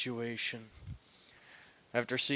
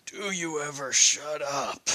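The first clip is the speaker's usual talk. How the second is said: clear, defiant retort; bold, spelled-out jab; defiant repeat; 3 dB louder than usual. Acted. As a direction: say it again so he hears it properly. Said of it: "I said".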